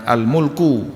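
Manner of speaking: al-mulku read with u vowels, mul-ku; al-mulku, meaning power, with u vowels. Shown as a demonstration. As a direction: give al-mulku its u vowels clearly. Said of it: "kata ini bisa dibaca bermacam-macam".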